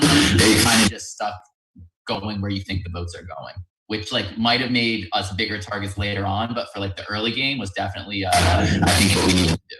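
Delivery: distorted mic voice; demon voice glitch. Real, not acted. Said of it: "demon voice randomly with your mic".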